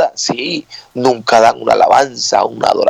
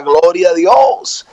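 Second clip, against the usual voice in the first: higher, stretched-out praise cry; mock shout; 4 semitones higher, slower than usual. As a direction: imitate a lone worshipper calling out. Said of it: "él grita ya".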